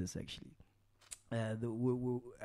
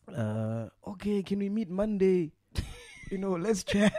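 laughing; 4 semitones higher, slower than usual. Retold or imitated. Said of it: "he goes".

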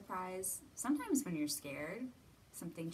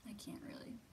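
whispered aside; 8 dB quieter than usual. Real, not acted. Aside about wiggling nose.

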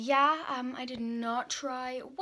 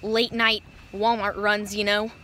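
loud, pumped vlog greeting; loud hype; 3 semitones lower, 7 dB louder than usual. Real, not acted. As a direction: hype it up for the camera. Hyped vlog intro.

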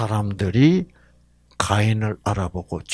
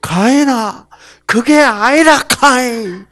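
put-on God in a loud, high Gyeongsang accent; Gyeongsang dialect God; 10 semitones higher, 7 dB louder, slower than usual. Preacher voicing God to Cain, loud Gyeongsang accent. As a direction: bark it out like a Gyeongsang man. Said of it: "하나님이 경상도 사람이라면".

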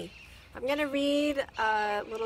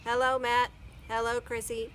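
robot voice; 6 dB louder than usual. Acted. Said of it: "said the robot".

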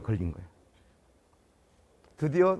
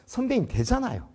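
smug; 6 semitones higher than usual. Retold or imitated. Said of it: "뭐 이런 우쭐거리는 마음으로".

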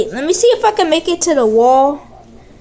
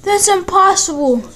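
excited; 2 semitones higher, slower than usual. Real, not acted. Flip lands again.

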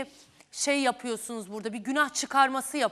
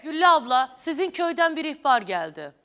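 calling out; 6 dB louder than usual. Real, not acted. Host calling out to guest.

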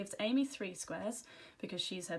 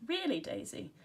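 high-pitched, put-on reproach; affected complaint; 8 semitones higher than usual. A narrator's reading. Chloe chides a friend who yelled, affected complaint. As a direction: scold as if your ears hurt. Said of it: "in an affected way".

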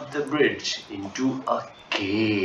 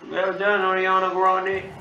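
cheering; 8 semitones higher, 8 dB louder than usual. Real, not acted. Praising game character.

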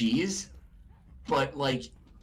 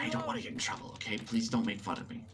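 whispering; 7 dB quieter, faster than usual. Real, not acted. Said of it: "I need to whisper".

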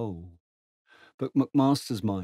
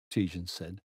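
ordinary delivery, nothing marked

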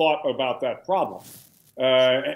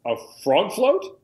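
high, slow incredulous echo; stunned disbelief; 6 semitones higher, 3 dB louder, slower than usual. Retold or imitated. Young ensign echoing his commanding officer in stunned disbelief. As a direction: repeat it back like you can't believe it. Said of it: "I'm, I'm kinda stunned".

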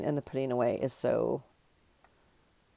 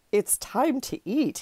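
cartoon raccoon voice; 8 semitones higher, slower than usual. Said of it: "he's like".

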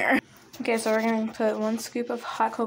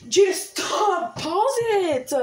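flustered; 9 semitones higher, much slower than usual. Real, not acted. Telling off someone interrupting filming.

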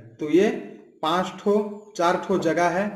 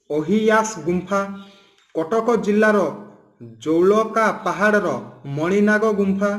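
reading a list of cave names from an Odia book, steady and even; textbook list reading. Shown as a demonstration. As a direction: tick through the names like a syllabus list. Reads Odia list of caves. (Odia किताब से सूची पढ़ना)

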